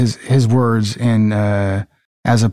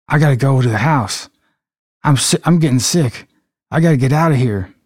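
lightly acted panic in a Southern accent; mild panic. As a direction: hurry the last plea, as a rattled Southerner. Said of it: "Calvin says panically".

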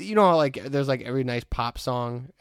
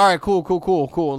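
mock rapper; 5 semitones higher, 7 dB louder than usual. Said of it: "It's like".

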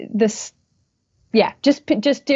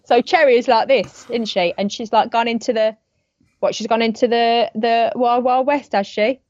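higher-pitched chatty character with tag questions; Cherry going Texan; 3 semitones higher than usual. Acted. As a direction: put on a character accent drifting toward Texan. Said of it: "Cherry accent into a Texan accent".

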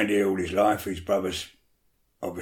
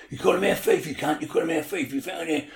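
mock hump; 5 semitones higher than usual. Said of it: "they was pretending to have the hump".

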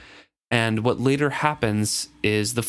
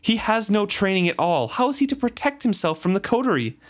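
raised, scolding voice full of disgust; disgusted outburst; 8 semitones higher than usual. Acted. Reader voicing a woman who cries out in disgust at the fool. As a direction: scold him as a careless fool. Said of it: "she cries in disgust".

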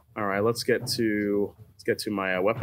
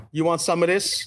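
cartoon taunt, pitched higher; Daffy; 4 semitones higher than usual. Player taunts the enemy, Daffy impression. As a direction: lightly imitate a cartoon challenger. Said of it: "It's like Daffy".

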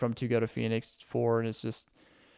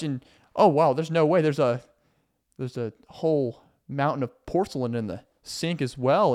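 mock surprise; 3 semitones higher, 3 dB louder than usual. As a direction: overplay delighted shock. Roommate feigns surprise at chores.

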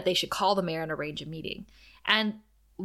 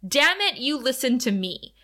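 intense outburst; 4 semitones higher than usual. Retold or imitated. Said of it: "Wesley gets really intense and he says".

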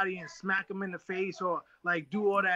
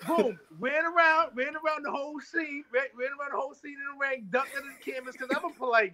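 higher, faster, hyped-up storytelling; excited retelling; 4 semitones higher than usual. Retold or imitated. Boxer hyping his podcast host with the ring story. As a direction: rush through the sneak-in like it's happening now.

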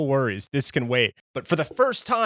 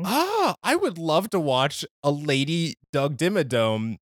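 dreamy excitement; slower than usual. Retold or imitated. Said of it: "I was just like".

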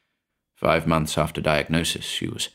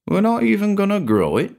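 high, disbelieving; amazed; 12 semitones higher than usual. A narrator's reading. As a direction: ask in disbelief. Eckersley amazed.

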